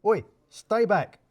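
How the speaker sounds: backing away in a fluster; hysterical. A narrator's reading. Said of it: "becoming hysterical".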